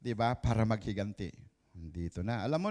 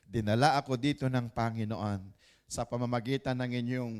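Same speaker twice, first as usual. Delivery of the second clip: Joseph speaking. Retold or imitated. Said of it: "ang sabi ni Joseph".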